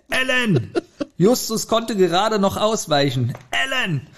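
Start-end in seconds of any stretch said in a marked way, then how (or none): 0.1-0.7 calling out a name. Acted. Reading the book aloud, Justus calls after Ellen. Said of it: "rief er seinen Namen". 3.5-4.1 second call of the name. Acted. Reading the book aloud, Justus calls Ellen again. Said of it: "rief er seinen Namen".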